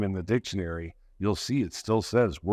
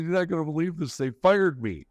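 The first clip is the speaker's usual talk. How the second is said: high, tearful voice, much higher pitched; retold crying call; 8 semitones higher than usual. Calling his old trainer Jimmy after being fired, tearful and high. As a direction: choke it out like the tears are still coming. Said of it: "I'm crying my eyes out".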